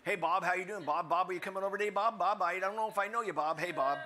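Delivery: mock conversation stuffed with a name; lightly hammed-up, run-on babble; babbling chatter. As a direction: parody someone prattling at a friend. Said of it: "Do you talk like this?".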